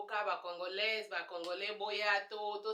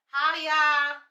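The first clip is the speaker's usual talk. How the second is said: louder, exasperated challenge; incredulous retort; 3 semitones higher, 10 dB louder than usual. Retold or imitated. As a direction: push back on them, baffled and loud. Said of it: "And I'd be like".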